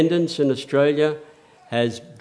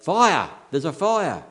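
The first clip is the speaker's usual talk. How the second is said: higher-pitched mock cry of alarm; imitated yell; 4 semitones higher than usual. Someone in a high-rise building calls out fire, mild yell. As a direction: call out a fire warning, without a full shout. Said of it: "somebody yells out".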